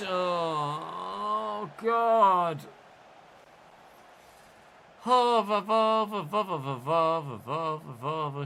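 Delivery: loud excited stammering building up; excited shouting. Real, not acted. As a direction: yell as the shot goes in. Long shot, excited buildup.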